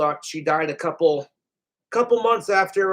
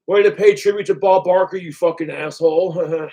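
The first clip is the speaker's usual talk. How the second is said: troll comment; 5 dB louder than usual. Retold or imitated. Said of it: "all the trolls are gonna text me".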